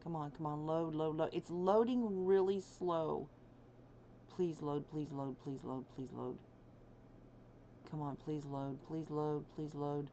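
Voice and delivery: pleading with a machine. Real, not acted. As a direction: coax the game to load. Pleading with slow game to load.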